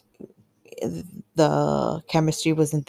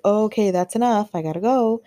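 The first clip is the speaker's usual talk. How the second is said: higher-pitched, retold protest; retold brush-off; 5 semitones higher than usual. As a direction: quote yourself wrapping it up, pitched up. Retelling how she tried to end it.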